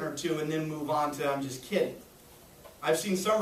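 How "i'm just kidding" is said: light joking tone. Shown as a demonstration. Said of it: "say it seriously, but only for a second".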